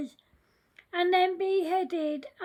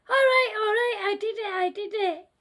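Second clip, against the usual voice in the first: panicked scream; 4 dB louder, much faster than usual. Acted. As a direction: give in fast, in a loud scared outburst. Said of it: "Stumpy screamed and said".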